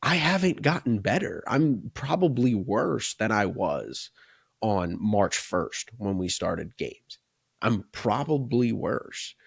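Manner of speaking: slow, drawn-out imitation of a player taking stock; voiced athlete's realization. Athletes look around when November comes, voiced slow realization. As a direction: quote the player slowly, letting each admission land. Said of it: "they look around and they go".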